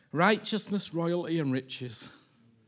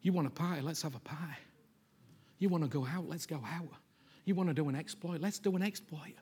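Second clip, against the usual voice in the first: the Father, eager. Retold or imitated. The Father assuring his elder son, swelling eager. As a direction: let the invitation swell to a ringing promise. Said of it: "The Father was saying".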